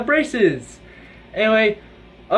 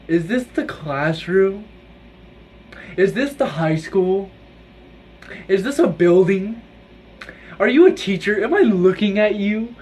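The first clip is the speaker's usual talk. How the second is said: mocking his voice. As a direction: play the clueless kid asking dumb questions. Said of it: "doing, like, his voice".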